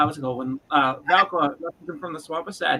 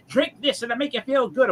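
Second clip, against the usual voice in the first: sweet elf lady; 6 semitones higher than usual. Retold or imitated. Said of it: "elf lady's like".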